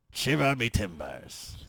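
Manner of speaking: put-on slow, pirate-ish Irish accent; bad Irish accent that turns pirate; mock Irish accent. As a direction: growl it out like a stage pirate passing for Irish. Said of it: "This is my Irish accent".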